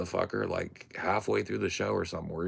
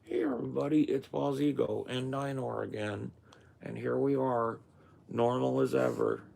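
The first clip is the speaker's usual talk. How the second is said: mock streamer intro; 8 semitones higher than usual. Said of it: "See, I could just do this".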